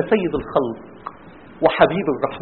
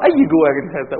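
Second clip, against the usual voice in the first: composed reproach, pitched low; calm restraint; 4 semitones lower than usual. Acted. Prophet asking about the rubbish at his door, calm reproach. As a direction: question them without losing your temper. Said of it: "المؤمن هادئ".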